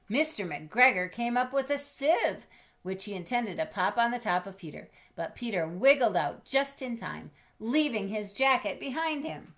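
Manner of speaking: lively read-aloud climax; excited narration. A narrator's reading. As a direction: build the escape with excitement. Escape narration.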